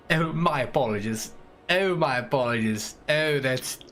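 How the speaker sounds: put-on British apology; mock British. Streamer answering a chat jibe about sounding British, mock British. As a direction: overdo the British accent a touch. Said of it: "you do not sound British".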